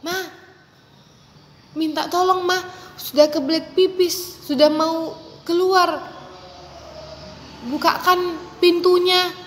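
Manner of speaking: put-on sweet courteous kid; polite request. Shown as a demonstration. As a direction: ask nicely through the door. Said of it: "Kamu bisa ketuk".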